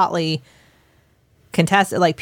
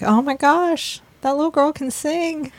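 high, awestruck fan gush; excited gush; 8 semitones higher than usual. Retold or imitated. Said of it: "I was like".

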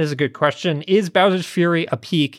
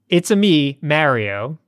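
lightly voiced Mario catchphrase, a little louder; a hint of Mario, cheerful; Mario impression; 2 semitones higher, 4 dB louder, slower than usual. Host imitating Mario's famous catchphrase. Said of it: "that's how he says it".

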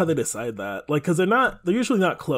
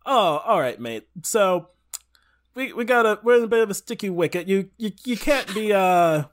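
mock English accent; 4 semitones higher than usual. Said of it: "this Englishman calls this French guy".

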